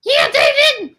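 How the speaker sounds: cheering. Acted. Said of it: "You can't talk so loud".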